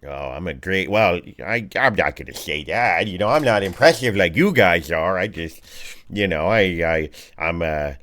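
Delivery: halting, modest character voice; a hint of awkward oddball; bashful Raynar. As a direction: stumble lightly through a self-description. Game master voices flustered captive Raynar.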